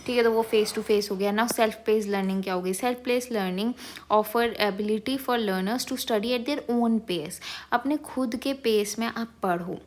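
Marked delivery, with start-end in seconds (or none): 2.7-7.4 reading a definition very slowly, word by word; slow dictation reading. Acted. Teacher slowly dictating a textbook definition to students.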